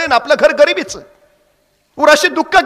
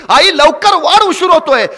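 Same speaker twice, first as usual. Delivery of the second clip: put-on boy's call; 4 semitones higher, 3 dB louder than usual. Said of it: "पोराची आरोळी घुमत होती".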